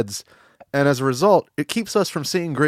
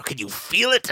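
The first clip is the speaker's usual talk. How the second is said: higher build-up into a rising question; mock hype; 4 semitones higher, 4 dB quieter than usual. Host hyping the audience, mock excitement. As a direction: hype the question up, pitch climbing. Hyped-up question, then deflated repeat.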